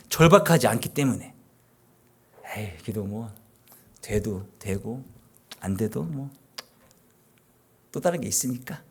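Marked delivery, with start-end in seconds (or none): 2.5-8.8 shrugging nonchalance. Retold or imitated. Voicing half-hearted pray-er.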